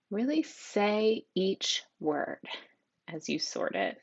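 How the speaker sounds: really said slowly and drawn out; really stretched slow. Shown as a demonstration. Teacher slowly stresses "really" for students. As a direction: draw out really, say each word slowly. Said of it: "how I really emphasized".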